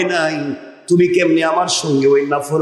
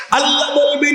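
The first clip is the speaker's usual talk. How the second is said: high sustained call; impassioned preaching; 9 semitones higher than usual. Real, not acted. Preacher announcing God's words, high ringing cry. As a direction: call it out high, almost on one note.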